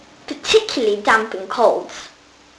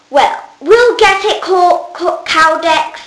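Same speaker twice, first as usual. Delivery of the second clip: louder, higher call across the house; 6 semitones higher, 4 dB louder, slower than usual. Acted. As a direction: Flavia calls out to Caudex in the peristyle, raised voice. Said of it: "so she called out".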